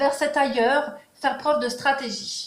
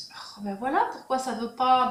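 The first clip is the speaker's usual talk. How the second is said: whispered aside. Real, not acted. Annoyed aside to card tilt.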